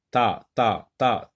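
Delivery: "ta" repeated low, in separate short beats; teacher picking "ta" out of table; isolated first syllable. Shown as a demonstration. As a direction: repeat "ta" to expose the t sound. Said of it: "répète ce mot et essaye de voir".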